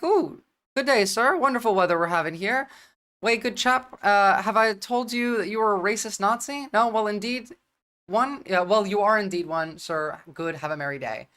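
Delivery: a hint of a posh British gent, overly polite; hammed-up polite Englishman insulting sweetly; mock British accent. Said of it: "if you're British, fat gas might say it like that".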